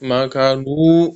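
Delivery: كانوا with long و after ن; clear long vowel. Shown as a demonstration. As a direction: draw out the و in كانوا. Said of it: "نون کے بعد واو ہے نا". (كانوا میں واو لمبا)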